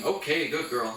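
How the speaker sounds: slightly high, lifted praise to a dog. Real, not acted. Trainer rewarding dog for touching bells, upbeat praise. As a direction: give the puppy a quick, upbeat reward.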